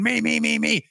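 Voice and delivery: high, eager pleading; imitated eagerness. Player with leg over the bench, high eager begging. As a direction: beg to be picked, mock-excited.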